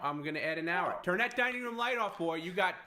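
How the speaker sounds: stern parent voice. Acted. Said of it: "talking to him like he's a toddler".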